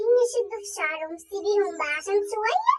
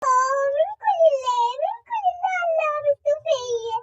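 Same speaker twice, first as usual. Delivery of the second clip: wailing curse; 4 semitones higher than usual. Acted. Exhausted mother cursing the kids.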